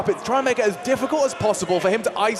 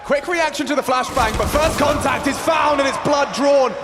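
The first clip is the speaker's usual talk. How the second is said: building match commentary; live play-by-play. Real, not acted. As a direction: call the action live, rising with each kill.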